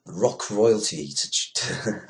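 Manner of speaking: words dragged out and tripping, halting; fumbling the headline aloud, slowly; stumbling slowly. Real, not acted. Reading the news headline to listeners, stumbling slowly over it. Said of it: "I can't even speak".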